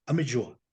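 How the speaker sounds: "Amelloa" said the Portuguese way, falling at the end; Portuguese-accented "Amelloa", without a lengthened final vowel; Portuguese pronunciation. Shown as a demonstration. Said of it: "Así se pronuncia". ("Amelloa" con pronunciación portuguesa)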